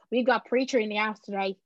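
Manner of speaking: shaky stab at an Irish accent; attempted Irish accent. Shown as a demonstration. Host introducing preacher in a badly faked Irish accent. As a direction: put on a poor Irish accent. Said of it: "an Irish accent".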